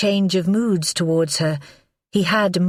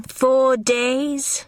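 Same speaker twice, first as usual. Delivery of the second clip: light, breezy teasing; lightly; 9 semitones higher than usual. Acted. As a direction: toss it off lightly. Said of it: "she said lightly".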